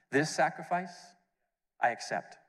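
a lightly voiced, solemn Father; voice of God. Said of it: "the voice came down saying".

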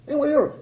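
the word hear leaned on, falling; stress on hear. Real, not acted. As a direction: land hard on hear in the repeat. Repeats the line for emphasis.

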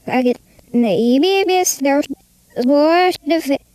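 garbled reversed-sounding words; backwards speech. Pretend. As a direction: babble as if the words run backwards. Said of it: "Why are you talking like that?".

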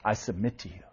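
soft, hushed yielding prayer; bow the voice down, quietly giving in; quiet surrender. Retold or imitated. Pastor yielding to the Lord, hushed and submissive. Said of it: "And I have to say".

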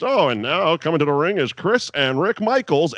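lightly hammed-up announcer call; imitating the ring announcer introducing a tag team. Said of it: "because they're announced".

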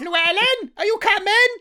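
put-on high, loud Welsh-accented holler. Actor parodying accents, calling someone in exaggerated Welsh. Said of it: "I'd have to put on a Welsh accent".

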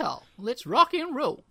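loud put-on American yeehaw voice; American accent. British cohost parodying Americans saying the catchphrase, American accent. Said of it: "say it with an American accent".

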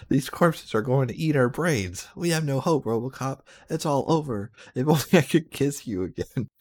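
high, loud despairing wail; wild unhinged ranting. Acted. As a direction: cry out in hopeless panic. Batman despairs, zombies approach.

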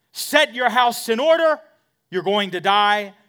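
loud, high, ringing pulpit declaration; full-force prophetic announcement; proclaiming the prophecy. Acted. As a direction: thunder the warning out to the congregation. First reading of the prophecy.

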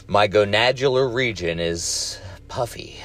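holding back a laugh; fighting off giggles, mock serious; stifled giggles. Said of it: "I'm trying not to laugh".

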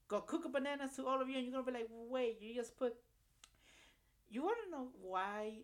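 loud, high and fast hype; hyped yelling. Real, not acted. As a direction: go wild with excitement. Hyped crazy prediction.

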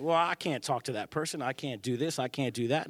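understated, shrinking reluctance; mildly hesitant. Acted. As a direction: make timid excuses under your breath. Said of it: "we're so hesitant".

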